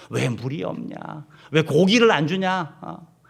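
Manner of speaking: slow, drawn-out mock complaint; retold grumbling. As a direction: imitate people griping, dragging out each question. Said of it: "늘 한 게 뭐냐면 원망과 불평이에요". (불평하듯 길게 늘여 따지는 말투)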